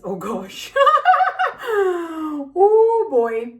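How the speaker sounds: a burst of high, loud laughter that breaks toward crying; real laugh-cry, overwhelmed by stress; laughing while close to tears. Real, not acted. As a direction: laugh it out near tears, losing it. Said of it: "I'm freaking out here".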